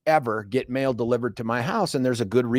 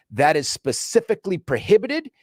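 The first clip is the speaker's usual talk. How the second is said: officious clerk reciting rules, pitched up; officious lecturing; 4 semitones higher than usual. Retold or imitated. Post office clerk quoting contract rules at customer, officious lecturing. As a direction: imitate a clerk reading out the rulebook. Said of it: "he's talking to me like this".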